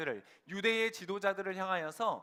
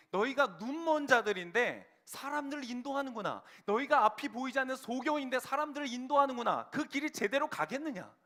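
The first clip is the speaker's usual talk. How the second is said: raised-pitch scathing rebuke from the pulpit; stern rebuke; 5 semitones higher, 3 dB louder than usual. Acted. Jesus denouncing the blind religious leaders, stern rebuke. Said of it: "아주 매섭고 냉정하게 비판을".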